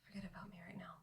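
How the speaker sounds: hushed, whispery dismissal; very soft, drained murmur; weak brush-off. Acted. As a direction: wave off concern under your breath. Sick character brushes off concern.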